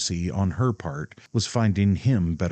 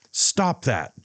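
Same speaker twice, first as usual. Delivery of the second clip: fierce command; 7 semitones higher than usual. A narrator's reading. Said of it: "George commanded fiercely".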